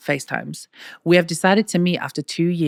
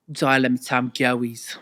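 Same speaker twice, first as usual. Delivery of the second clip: mimicking Clara; 4 semitones lower than usual. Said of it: "is that how you think I sound".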